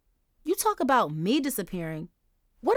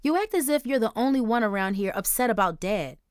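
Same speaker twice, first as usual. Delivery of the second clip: higher, louder angry tirade; fuming; 5 semitones higher, 4 dB louder than usual. Acted. Daughter fuming at her grieving mother, angry. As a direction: let the resentment pour out. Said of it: "Angel fumed".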